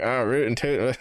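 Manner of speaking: lightly cartoonish Texan twang; mock Texan. Mocking how people think Texans sound, mock Texan accent. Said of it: "Texans sound like".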